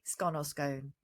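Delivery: "scone" rhyming with gone, then rhyming with bone; two pronunciations. Shown as a demonstration. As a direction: say "scone" both ways, short o then long o. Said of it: "Do you say scone or scone".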